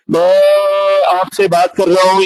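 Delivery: drawn-out मैं, held steady. Shown as a demonstration. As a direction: demonstrate raising the voice, mildly. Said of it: "ये मैंने आवाज raise कर दी".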